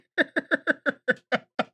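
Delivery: long, high giggling fit; real laugh. Real, not acted. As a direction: let a high laugh run on in pulses. Laughs at own mistake.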